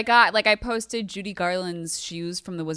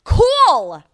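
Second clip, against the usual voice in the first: sarcastic; 7 semitones higher, 8 dB louder, much slower than usual. Acted. Sarcastic rant climax.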